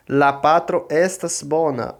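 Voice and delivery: "La patro estas bona" in slow, careful Esperanto; pronunciation demo. Shown as a demonstration. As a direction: pronounce "La patro estas bona" slowly for a class. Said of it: "Vou pronunciar".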